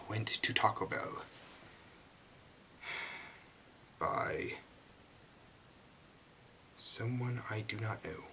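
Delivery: slow, hushed announcement of a tale; hushed tale introduction. A narrator's reading. Reader introducing a fan fiction to listeners, hushed. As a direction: draw the title out, ending almost in a whisper.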